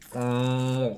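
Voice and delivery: imitated water noise; mouth-made reservoir sound; reservoir impersonation. Shown as a demonstration. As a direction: hum and gurgle like a body of water. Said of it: "An impersonation of a reservoir".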